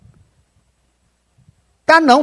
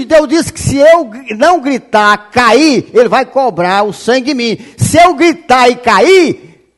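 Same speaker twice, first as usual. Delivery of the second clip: fervent raised preaching voice, pressing hard; preaching shout; 4 semitones higher than usual. Real, not acted. Preacher warning his flock, shouting fervently. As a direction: plead with the congregation at full voice. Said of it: "Tá vendo a razão por que é que eu tô gritando aqui?".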